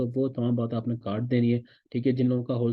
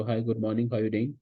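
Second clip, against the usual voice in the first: American-style accent attempt; much slower than usual. Shown as a demonstration. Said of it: "उन्हीं के accent में try करें".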